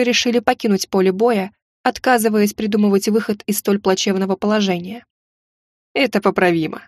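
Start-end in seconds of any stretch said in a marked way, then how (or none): 5.9-6.8 hoarse mocking whisper. A narrator's reading. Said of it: "Насмешливый хриплый шёпот".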